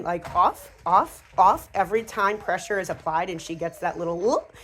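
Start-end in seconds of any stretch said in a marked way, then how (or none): 0.9-1.7 louder "off" said as a command; firm off command. Shown as a demonstration. Trainer correcting a jumping dog with off. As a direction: snap out the command off. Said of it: "if you apply off every time".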